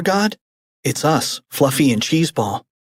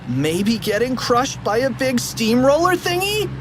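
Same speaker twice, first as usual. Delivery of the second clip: put-on high kid voice; 10 semitones higher than usual. Character suggests.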